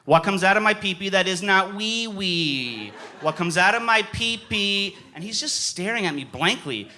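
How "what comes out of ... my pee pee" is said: slightly raised, insistent retold clue; insistent repeat. Player repeating a clue to his stumped game partner, insistent. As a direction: press the clue on a blank partner.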